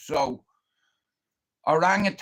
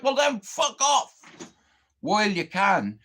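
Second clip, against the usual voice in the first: retold angry dismissal; 3 semitones higher than usual. Retold telling repairman to leave.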